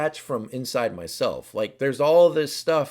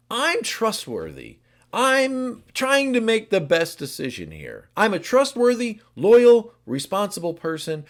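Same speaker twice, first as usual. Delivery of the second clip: earnest type six; 5 semitones higher, 4 dB louder than usual. Acted. Voicing type six's surface.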